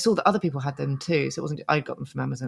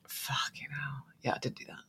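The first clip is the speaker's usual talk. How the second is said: hushed whisper; 15 dB quieter than usual. Real, not acted. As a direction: say it under your breath. Whispered reaction to press ups.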